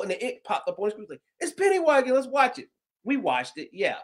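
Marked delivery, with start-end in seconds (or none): 1.4-2.7 excited daughter. Retold or imitated. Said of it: "she's like".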